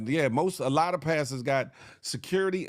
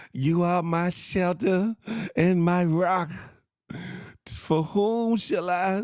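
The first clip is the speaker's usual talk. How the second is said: preaching prayer; slower than usual. Retold or imitated. Pastor praying while being arrested.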